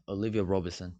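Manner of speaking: understated fake British accent; a hint of put-on British. Shown as a demonstration. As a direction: read the names in a lightly British accent. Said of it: "I say it in a British accent".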